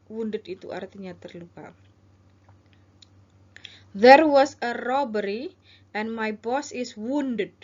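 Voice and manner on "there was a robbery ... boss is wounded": slow, urgent report; caller role. Shown as a demonstration. Teacher as caller reporting a robbery, slow and urgent. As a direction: say it slowly, with clear urgency. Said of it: "ini adalah Anda".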